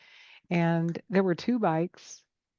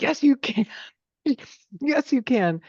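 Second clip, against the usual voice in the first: insistent mom; 4 semitones higher, 4 dB louder than usual. Retold or imitated. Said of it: "And she's like".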